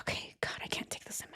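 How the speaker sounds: whispered, strained self-talk; frustrated whisper. Acted. Host pretends to struggle with SIM, frustrated whisper.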